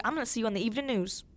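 put-on quick, lightly Southern-accented grandma. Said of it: "I gave her a Southern accent".

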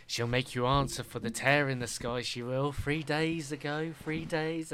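mild crazed hermit foretelling doom; lightly voiced mad druid. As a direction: mutter the doom like a madman, slowing down. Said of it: "he's like".

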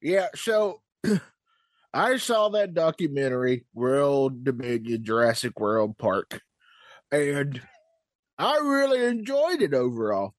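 put-on old prospector.

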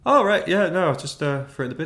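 high, loud flustered excuse; nervous cover-up. Retold or imitated. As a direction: blurt it out too brightly to hide guilt. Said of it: "I was like".

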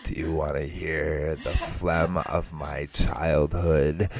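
very slow mock ASMR delivery; hammed-up, lingering ASMR parody; mock ASMR host. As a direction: drag out each word for the listeners.

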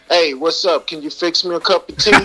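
casual American accent, breaking into amusement; own American accent. Shown as a demonstration. Guest's own version of the tea request, casual American accent. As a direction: answer in relaxed American street talk. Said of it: "coming from me, mine would be".

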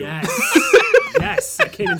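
excited. Real, not acted. Shouting victory.

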